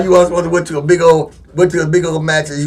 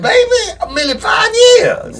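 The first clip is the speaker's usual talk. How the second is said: mock outraged shout; slower than usual. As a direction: yell back at the excuse. Outraged retort.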